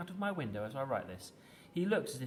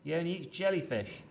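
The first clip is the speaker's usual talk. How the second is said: raised, louder voice to someone below; calling down; 5 semitones higher, 5 dB louder than usual. A narrator's reading. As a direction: call down to a child outside. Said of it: "I called down".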